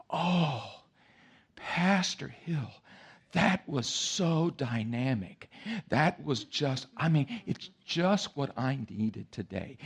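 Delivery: slow, gushing admirer voice; a first-time guest gushing over the pastor's sermon. Retold or imitated. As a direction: lay the flattery on thick, slowly. Gushing church guest quoted.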